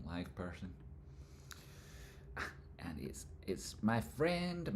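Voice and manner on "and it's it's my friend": playful whisper. Acted. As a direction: breathe it like a secret. Whispered, slow.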